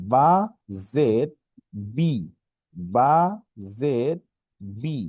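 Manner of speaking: "বা জের বি" word by word, long pauses, ending in ee; spelling drill. Shown as a demonstration. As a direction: sound out "বা জের বি" piece by piece. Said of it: "জেরের উচ্চারণ হচ্ছে হলো বাংলায় ইকারের মতো".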